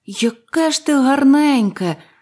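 high, drawn-out, admiring, enraptured, delighted cry. Narrator reads the boy speaking to the little tree, exclaiming in delight. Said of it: "захоплено вигукнув хлопчик".

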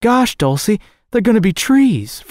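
excited exclaiming, high in pitch. Freddy calls out to dulcie in the greenhouse, exclaiming. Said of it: "Freddy exclaimed".

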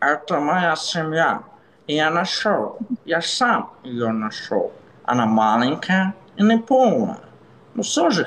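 animated cartoon alien voice, pitch swinging up and down. Dubbing a cartoon scene in Russian, using a Stitch voice. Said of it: "We need using Stitch voice".

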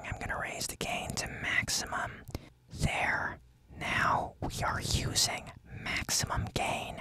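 soft, breathy, hushed whisper. Testing a microphone while explaining the gain setting, whispering. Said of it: "Now I'm whispering".

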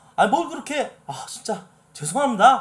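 high, loud, over-the-top, overdone apologetic tone. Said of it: "약간 방극현 모드로다가".

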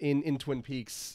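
ordinary delivery

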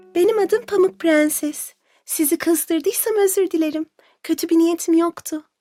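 very high-pitched, shy, timid, halting and hesitant. Narrator reads the just-woken princess introducing herself to the seven dwarfs, timid and hesitant. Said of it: "Çekinerek".

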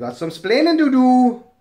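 high, loud put-on Cuban accent.

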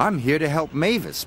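puffing proudly. Thomas answers Diesel at the quarry, puffing proudly. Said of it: "puffed Thomas proudly".

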